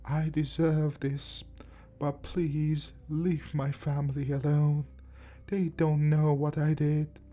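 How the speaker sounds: put-on slow, resigned old man; tired, dejected. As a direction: give in, worn out. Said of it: "he said with a tired, dejected voice".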